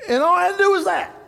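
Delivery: real crying catching him mid-sentence; voice breaking. Real, not acted. Pastor choking up before his congregation, voice breaking into tears. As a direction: pitch jumps up as tears break through the words. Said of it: "I'm s-, I'm sorry, y'all".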